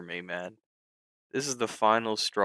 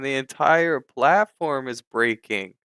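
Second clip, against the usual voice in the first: angry; 2 semitones higher, 6 dB louder than usual. Real, not acted. Platform failing mid-trade.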